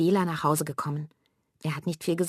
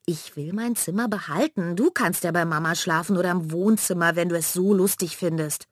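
mild mock shriek; 3 dB louder than usual. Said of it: "Aber Manja kreischt los".

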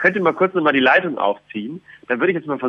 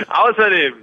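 royal proclamation. Pretend. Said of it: "Hier kommt der Wille des Königs".

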